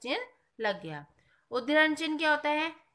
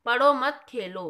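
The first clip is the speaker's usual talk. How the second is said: पढ़ो मत खेलो run together as one phrase; no pause; 5 dB louder than usual. Shown as a demonstration. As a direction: say पढ़ो मत खेलो without a break. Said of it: "तीसरे वाक्य में चिन्ह न होने से". (पढ़ो मत खेलो बिना रुके एक साथ)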